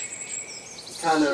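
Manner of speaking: slow breathy whisper. Acted. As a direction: draw it out in a hush. DM describes charm seductively.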